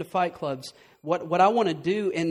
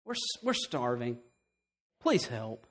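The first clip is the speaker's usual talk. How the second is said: mock pitiful plea; 3 semitones lower, 5 dB quieter than usual. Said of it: "But I can get up here and say".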